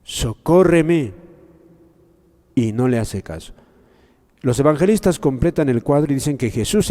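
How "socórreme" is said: drawn-out, slow begging plea; pleading cry. Acted. Mother catching up with Jesus, slow pleading cry. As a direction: stretch it out like a desperate mother.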